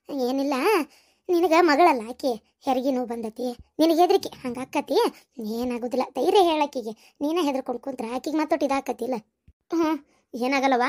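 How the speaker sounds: low, soothing voice; calm a frightened family gently; reassuring. Acted. Elder calms frightened mother and daughter.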